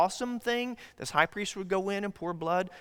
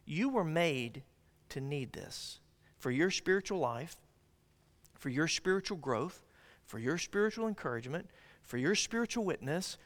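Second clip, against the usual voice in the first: soft earnest plea; 7 dB quieter than usual. Acted. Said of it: "God is saying".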